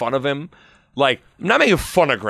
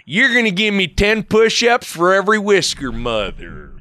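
drill sergeant. Retold or imitated. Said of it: "era where men wore suits".

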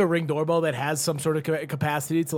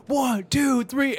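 higher-pitched imitated count-in; mock countdown; 7 semitones higher, much slower than usual. Retelling a death wall at a concert, mock countdown. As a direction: count off like launching a charge. Voicing crowd's countdown before charge.

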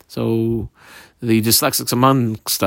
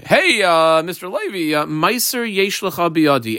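field owner; 4 semitones higher than usual. Retold or imitated. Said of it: "Yisrael who says to a Levi".

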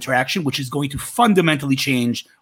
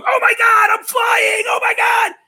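high shrieking mock joy, much louder; ecstatic shout; 5 dB louder, slower than usual. Comic on an airplane shouting in amazement, high ecstatic yell. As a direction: yell it like a thrilled passenger. Retelling Louis CK's airplane joke.

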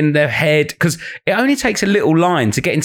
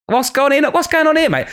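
mock challenge; 13 semitones higher than usual. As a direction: call the heckler out with a grin. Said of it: "I'll go".

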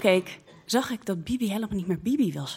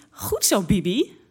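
acted cheering; 3 semitones higher, slower than usual. Storyteller voices Linda cheering Bibi.

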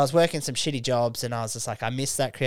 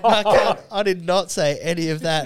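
excited; 6 semitones higher, 9 dB louder than usual. Retold or imitated. Retelling own protest.

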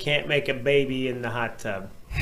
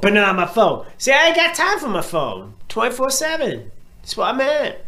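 raised, louder mocking voice; mock dumb poster; 8 semitones higher, 4 dB louder than usual. Co-host mocks a post's excuse, louder raised voice. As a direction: play the clueless poster defending himself. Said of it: "continues poster's voice".

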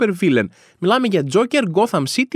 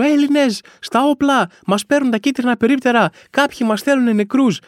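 mock rallying cry; 6 semitones higher than usual. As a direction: call the people to arms, hammed-up. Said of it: "να φωνάζω".

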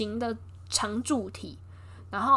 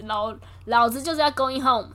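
defiant brag; 4 dB louder than usual. Retold or imitated. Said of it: "他就很北宋这样子".

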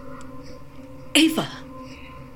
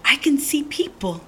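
awed whisper; 4 semitones higher than usual. Acted. Spotting the village in awe.

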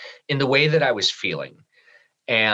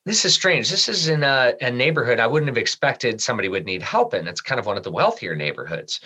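puzzled. Retold or imitated. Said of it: "I'm like".

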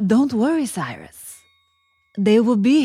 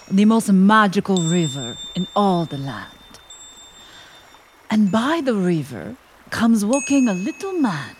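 storybook narration. A narrator's reading. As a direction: tell it like a bedtime story. Narrator sets the scene.

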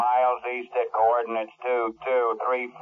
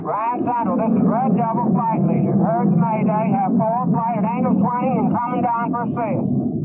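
pilot over the radio, loud; 9 semitones higher, 5 dB louder than usual. Acted. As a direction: call in over a crackling radio. Radio call from flight leader.

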